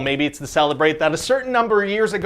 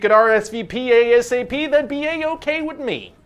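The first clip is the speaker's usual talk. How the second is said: jumbled acronym pitch; 4 semitones higher than usual. Acted. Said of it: "You butchered that".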